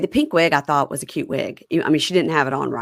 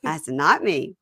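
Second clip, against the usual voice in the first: put-on fast, defiant girlfriend; lightly voiced defiant girlfriend; mock girlfriend. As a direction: snap it back fast. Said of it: "And she goes".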